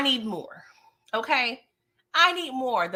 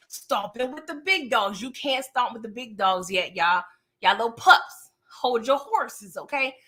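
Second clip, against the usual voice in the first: Martin. Retold or imitated. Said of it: "What did Martin say?".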